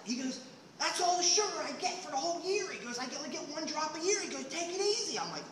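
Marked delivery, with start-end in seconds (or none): 0.8-5.2 high, put-upon voice; lightly voiced stingy hermit; fussy hermit. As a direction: scold him about the sugar. Hermit scolding about sugar.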